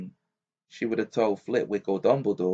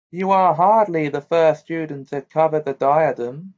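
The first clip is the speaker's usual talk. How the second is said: disdainful; 5 semitones higher, 8 dB louder than usual. A narrator's reading.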